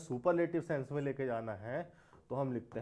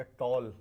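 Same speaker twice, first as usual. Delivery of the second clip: टॉल as one single beat; 3 dB louder, much slower than usual. Shown as a demonstration. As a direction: say टॉल in one unbroken syllable. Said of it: "एक ही बार में बोल दिया". (टॉल एक ही बार में)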